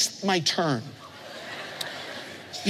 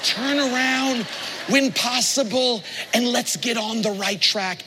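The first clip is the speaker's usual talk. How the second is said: gentle invitation; 5 semitones higher than usual. Retold or imitated. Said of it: "He just says".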